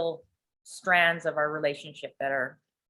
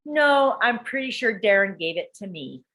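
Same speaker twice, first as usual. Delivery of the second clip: imitated insistent daughter; 3 semitones higher, 4 dB louder, slower than usual. Daughter arguing with mom over the heart, mock insistent. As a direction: push back as the daughter.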